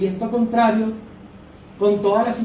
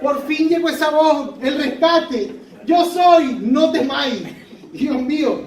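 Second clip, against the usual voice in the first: joyful laughing praise; 3 semitones higher than usual. Real, not acted. Preacher to congregation, rejoicing at the rescue: laughing praise. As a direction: laugh for joy as the rescue comes.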